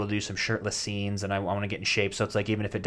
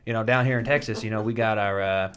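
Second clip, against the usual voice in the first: bad Southern accent; 3 dB louder than usual. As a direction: put on a weak Southern accent. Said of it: "I don't really do a good Southern accent".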